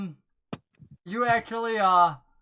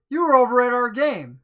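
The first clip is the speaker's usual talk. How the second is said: stranger's voice; 5 semitones higher, 5 dB louder than usual. Acted. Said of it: "He goes".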